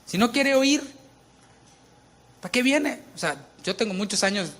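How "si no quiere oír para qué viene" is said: exasperated. Retold or imitated. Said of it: "y dices tú".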